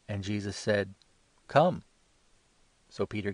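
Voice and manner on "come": calling out. A narrator's reading. Jesus answers Peter on water.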